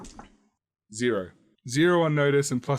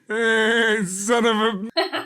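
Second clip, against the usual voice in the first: goat cursing; 9 semitones higher, 4 dB louder, much slower than usual. Acted. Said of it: "What you hear is".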